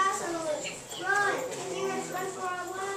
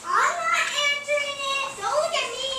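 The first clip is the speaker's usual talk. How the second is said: higher, louder frightened protest; scared refusal; 5 semitones higher, 6 dB louder than usual. Acted. Scared elephant refuses to answer door, loud frightened protest. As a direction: refuse in a panic.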